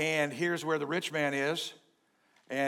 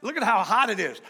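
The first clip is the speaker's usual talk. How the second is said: high, loud plea from the flames; pleading cry; 7 semitones higher, 4 dB louder than usual. Acted. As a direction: cry out begging for mercy, pitch up. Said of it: "And he called out".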